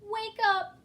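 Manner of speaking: high, loud desperate cry. A narrator's reading. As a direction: beg him to wake. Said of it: "cried Jane".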